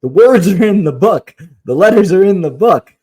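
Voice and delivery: frustrated. Retold or imitated. Mother telling daughter to look at the book, frustrated. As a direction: re-enact losing patience with a child. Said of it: "I get frustrated and I say".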